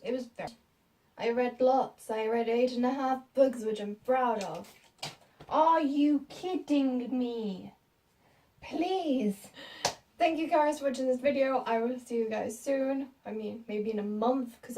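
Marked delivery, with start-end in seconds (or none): 5.5-9.4 mock scoff. Real, not acted. Scoffing at own reading count.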